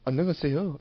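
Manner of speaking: "annyeonghaseyo" in imitation Korean; Korean greeting. Shown as a demonstration. Host shows off Korean hello, in Korean accent. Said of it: "It's Korean for hello".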